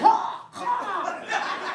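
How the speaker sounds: high loud fake retch; mock puking groan. Man as a cat puking, high loud mock retch. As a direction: make a huge scene of puking. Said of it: "You're like".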